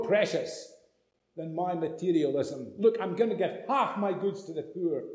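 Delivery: hushed, subdued acted repentance; contrite confession. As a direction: confess softly, as the humbled sinner. Voicing repentant Zacchaeus confessing.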